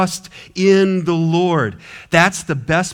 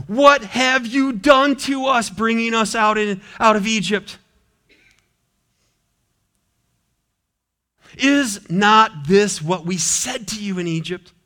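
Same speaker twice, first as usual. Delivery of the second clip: complaining Israelites; 6 semitones higher than usual. Acted. Israelites complaining to Moses, acted.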